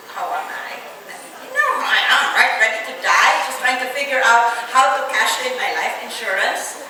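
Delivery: retold irritated comeback; annoyed. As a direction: retort with exasperated sarcasm. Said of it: "I was annoyed".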